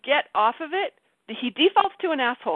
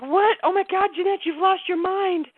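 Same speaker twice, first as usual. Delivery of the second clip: high-pitched disbelief, slowing at the end; shocked self-scolding; 8 semitones higher than usual. Retold or imitated. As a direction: react aghast at your own behaviour, pitch way up. Retold shock at her own outburst.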